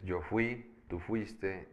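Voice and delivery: fui said very slowly and clearly; slow demo. Shown as a demonstration. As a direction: drag out yo fui for the students. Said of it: "por ejemplo, el verbo ir".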